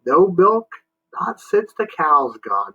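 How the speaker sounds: put-on high, slow, confused old-man voice; a sleepy old man mishearing; deaf old man. Moon answers Jimmy.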